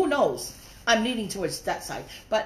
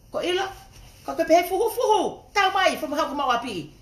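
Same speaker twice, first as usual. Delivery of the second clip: laughing mockery; 8 semitones higher, 3 dB louder than usual. Real, not acted.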